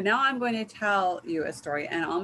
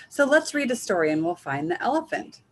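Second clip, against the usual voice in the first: little chicken voice; 2 semitones higher, 6 dB louder than usual. Acted. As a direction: chirp it like an excited little chick. Child Chicken voiced in story.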